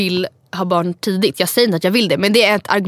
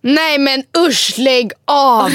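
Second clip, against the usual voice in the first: disgusted; 5 semitones higher, much slower than usual. Real, not acted. Reacting to smoking news.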